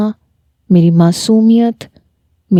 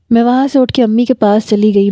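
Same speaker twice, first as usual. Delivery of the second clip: usual speaking voice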